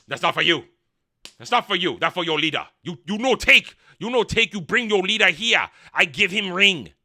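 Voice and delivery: broken-English mock Asian accent. Durin refusing to hand over a ring, mock Asian accent. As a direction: put on a crude, emphatic Asian accent. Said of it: "I don't know why they're Asian".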